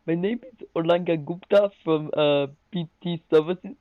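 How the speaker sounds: put-on hammy Indian tech-support accent; Indian call-centre accent. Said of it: "Okay, no, I'm gonna try to do it".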